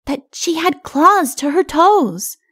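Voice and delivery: put-on high, slow, wide-eyed child voice; little child reporting. A narrator's reading. Little one repeating giants' tale, awed child.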